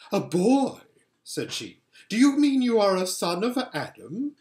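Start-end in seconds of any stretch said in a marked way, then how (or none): 0.1-0.8 higher, louder surprised queen. A narrator's reading. 2.1-4.3 higher, louder mocking queen; cold queen scoffing at the boy; scornful Queen. A narrator's reading. Queen voice held.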